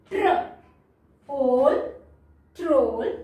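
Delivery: "ट्र", pause, long "ओल", then "ट्रोल"; blend sounded out. Shown as a demonstration. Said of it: "ये again हमारा blend है".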